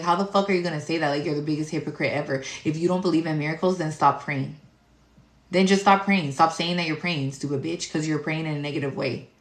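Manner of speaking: retold defensive rant. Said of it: "I got on defense mode".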